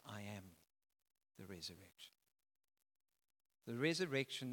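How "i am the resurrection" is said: solemn Jesus. Acted. Jesus answers Mary, voiced.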